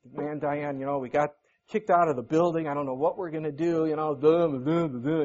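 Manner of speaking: mope like a gloomy donkey; a hint of Eeyore, glum and low; mopey Eeyore. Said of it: "I was like Eeyore".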